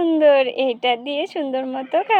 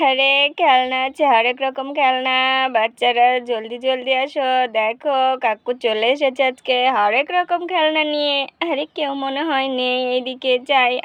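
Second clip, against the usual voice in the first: lightly voiced street hawker; street toy seller; 2 semitones lower than usual. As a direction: call out your toys to the children.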